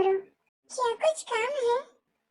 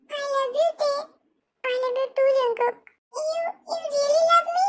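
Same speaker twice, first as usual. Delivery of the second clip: tearful; 3 semitones higher, much slower than usual. Acted. Tearful love confession.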